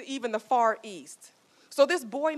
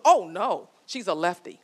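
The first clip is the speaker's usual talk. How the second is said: husband's punchline; 7 dB louder than usual. Retold or imitated. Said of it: "And he goes".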